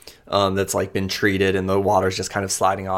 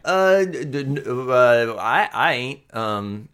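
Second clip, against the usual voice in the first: put-on higher, flustered young woman brushing off help; nervous Amoya; 4 semitones higher, slower than usual. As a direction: stammer out that she's fine, pitched up. Amoya stammers.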